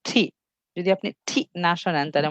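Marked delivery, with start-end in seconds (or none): 0.0-0.2 ঠি with a strong aspirated T; clear, forceful T. Shown as a demonstration. Teacher showing foreigners' forceful T, aspirated ঠি. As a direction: hit ঠি clearly with a puff of air. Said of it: "স্পষ্টত জোরে বলবে ঠি".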